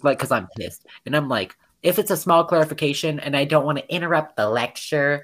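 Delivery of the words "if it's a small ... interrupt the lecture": mildly sarcastic retort to a teacher; understated sarcasm, quoting oneself. Retold or imitated. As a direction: retell a pointed, over-polite question. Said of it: "like, I say it sarcastically too".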